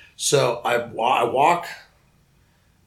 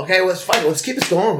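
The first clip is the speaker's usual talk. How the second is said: mock pumped up; 8 semitones higher, 5 dB louder than usual. Psyching himself up, retold.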